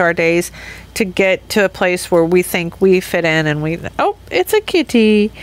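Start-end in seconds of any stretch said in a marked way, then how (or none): 4.0-5.3 high cooing voice for the cat. Pretend. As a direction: coo it to the kitty. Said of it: "Again, cat voice".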